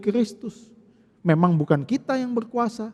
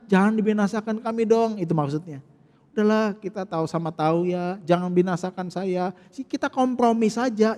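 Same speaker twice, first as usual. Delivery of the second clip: softer coaxing plea to compromise; wheedling bargain; 3 semitones lower, 5 dB quieter than usual. Acted. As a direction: sweet-talk him into a deal. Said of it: "sudah mulai tawar-tawaran".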